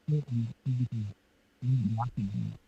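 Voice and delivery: muffled, garbled like underwater; bad connection, sounding underwater. Real, not acted. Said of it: "you kinda sound like you're underwater".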